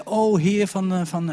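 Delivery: loud, high churchy invocation; mock pious plea. Imitating the woman addressing Jesus with pious terms, mock plea. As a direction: call out in hammed-up religious language. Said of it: "alle christelijke termen die erbij hoorden".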